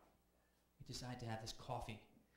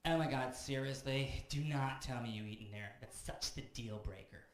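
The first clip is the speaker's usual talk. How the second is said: put-on valley girl; slower than usual. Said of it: "She's like".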